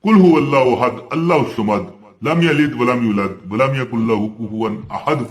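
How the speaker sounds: quick devotional recitation of Surah Ikhlas; Quran recitation. Shown as a demonstration. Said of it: "जो बंदा चालीस दिन... पढ़ लेता है".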